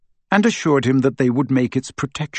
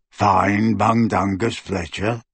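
slow, low croaky elf voice; croaking; 3 semitones lower, slower than usual. A narrator's reading. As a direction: croak it out slowly, worn from sobbing. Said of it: "he croaked".

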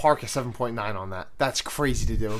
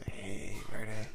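weirdo greeting; 5 semitones lower, 9 dB quieter than usual. Acted. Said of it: "Not, not a weirdo".

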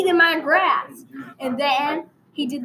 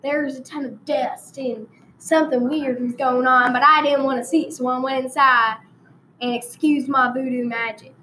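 hammed-up rural Texas storyteller; country Texan accent, played for laughs; put-on Texan accent. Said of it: "I'm gonna change accents for a while".

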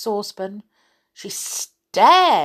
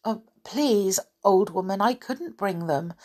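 butter her up gently; most polite voice. Acted. Rick politely excusing himself to the old woman. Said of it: "said Rick in his most polite voice".

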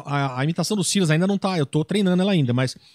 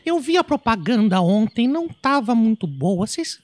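Araci voice. Acted. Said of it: "com a voz da Araci".

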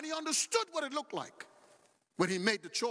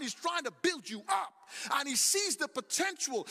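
rising preaching shout; 3 semitones higher than usual. Acted. Preacher lifts to climax.

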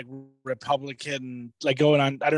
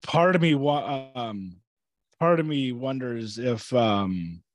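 trailing off; 4 semitones lower, much slower than usual. Real, not acted. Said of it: "I lost my train of thought".

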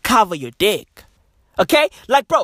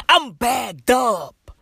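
drawn-out hype shout; slow shouted boast; much slower than usual. Acted. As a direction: bellow it slow and proud.

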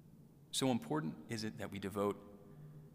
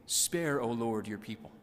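raised, imploring call to God; pleading prayer; 4 dB louder than usual. Acted. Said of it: "weep and say".

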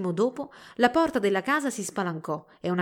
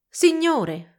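higher, louder worried call; 8 semitones higher, 9 dB louder than usual. A narrator's reading. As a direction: call out to your master with concern. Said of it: "disse una voce preoccupata".

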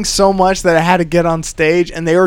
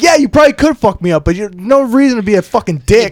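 heated comeback; 4 semitones higher than usual. Retold or imitated. Comedian answering a guy who threatened him, angry. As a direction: snap back at the threatening guy. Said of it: "And I was like".

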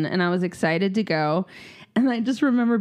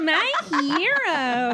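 laughing; 6 semitones higher, much slower than usual. Real, not acted. Laughing repeat.

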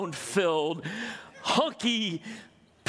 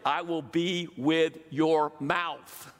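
slow reassuring God; much slower than usual. Acted. God's slow promise.

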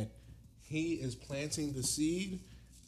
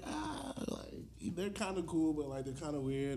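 wife's hesitant voice. Retold or imitated. Voicing the wife's doubts.

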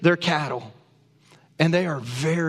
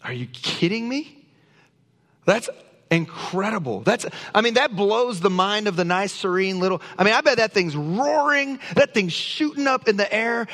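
amazed excitement; 3 semitones higher than usual. Real, not acted. Amazed at the waterfall picture.

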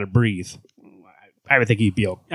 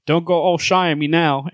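higher, mock drill-sergeant order; army call; 6 semitones higher than usual. Superman ordering his old squad out, mock officer bark. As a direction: play the commanding officer, half in jest. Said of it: "and he's like".

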